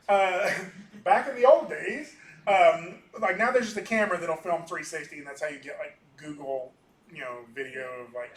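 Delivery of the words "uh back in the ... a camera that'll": a hint of an old-timer reminiscing; old man voice. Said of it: "here's my old man voice talking".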